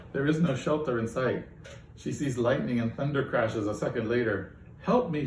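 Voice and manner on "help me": raised, higher plea; a mild hint of a desperate cry; calling out for rescue, lightly done; cry for help. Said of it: "she cries".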